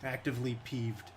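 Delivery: quiet, deadpan annoyance; softly sulking irritation; peeved. Real, not acted. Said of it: "I'm peeved".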